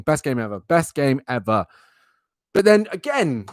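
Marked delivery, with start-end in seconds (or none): 0.0-0.6 low, soft dry sarcasm on Best; deadpan sarcasm. Real, not acted. Podcaster sarcastically praising the game that killed his character, low and dry. 0.6-1.6 Best game ever stretched out slowly, dripping irony; slow drawn sarcasm. Real, not acted. Podcaster repeating his sarcastic praise, slower and heavier.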